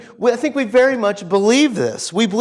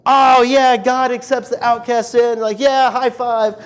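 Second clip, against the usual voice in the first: mock cheering; 3 semitones higher than usual. We hearers reacting to the story, mock enthusiasm. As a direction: imitate an enthusiastic crowd reaction.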